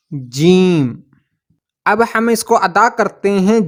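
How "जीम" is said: जीम spelled out slowly, much lower, each sound drawn apart; a drawn-out, deep जीम with the ी and म distinct; letter name demo. Shown as a demonstration. Teacher pronouncing the Urdu letter for students, a slow deep जीम. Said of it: "अब इसका तलफ़ुज़ है".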